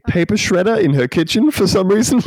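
can barely get it out for laughing. Real, not acted. Podcaster describing a silly ad to co-hosts, laughing.

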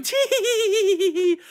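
very high, squealed mock giggle; gleeful tee-hee. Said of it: "gleefully dancing around in the kitchen".

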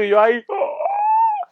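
high, slow strained groan; dying groan. Retold or imitated. Showing himself collapsed on the floor, high slow groan. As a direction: stretch out the dying ah.

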